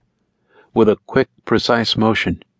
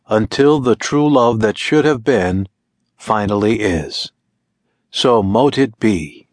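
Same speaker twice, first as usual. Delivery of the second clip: solemn incantation. Acted. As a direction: intone the curse like a ritual. Witch intoning the curse.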